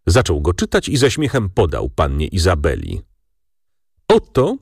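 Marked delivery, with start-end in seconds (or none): 4.1-4.6 high, loud call of "Oto"; father calling out over a letter, exclaiming. A narrator's reading. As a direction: call it out with a laugh to the table. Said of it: "zawołał".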